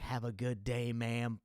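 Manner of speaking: fake-polite sign-off; sweetly cold farewell, imitating the clerk; mock polite customer-service send-off; passive-aggressive goodbye. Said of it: "passive aggressiveness".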